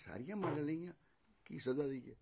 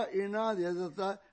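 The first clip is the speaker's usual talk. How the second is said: slower echo; 6 semitones higher, 6 dB louder than usual. Acted. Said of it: "ਇੰਨਾ ਦੇ ਦ�ੱਤਾ".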